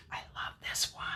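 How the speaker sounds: soft breathy whisper of delight. Real, not acted. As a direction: whisper it like a little secret. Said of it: "I don't know why I'm whispering that".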